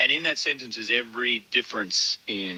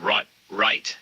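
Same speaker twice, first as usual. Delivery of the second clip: Australian right. Retold or imitated. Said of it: "I had to redo it 'cause I said".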